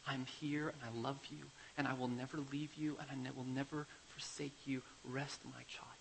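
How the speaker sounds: soft fatherly comfort fading to a whisper; soft and kind. Retold or imitated. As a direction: gently reassure a frightened child. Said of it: "very softly and kindly".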